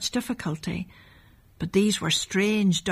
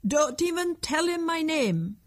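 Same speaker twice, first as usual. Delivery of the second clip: character voice; 9 semitones higher than usual. Acted. Character voice in story dialogue.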